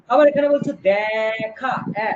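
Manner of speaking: দেখা said slowly with an open æ; দেখা with open vowel. Shown as a demonstration. Teacher slowly models দেখা with an open æ for students. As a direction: draw out দেখা as dækha.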